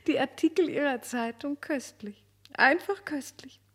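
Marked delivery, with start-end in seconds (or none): 2.5-3.6 breathy whispered praise; whispered delight. Acted. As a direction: whisper it like a delicious secret. Marquise lobt die Artikel. (entzückt geflüstert)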